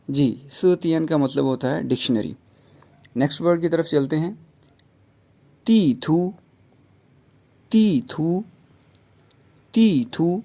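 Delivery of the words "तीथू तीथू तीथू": तीथू with ती falling and थू rising; falling then rising tones. Shown as a demonstration. Teacher drilling the tones of तीथू. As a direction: drop the first syllable, lift the last on तीथू. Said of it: "fourth tone ... second tone".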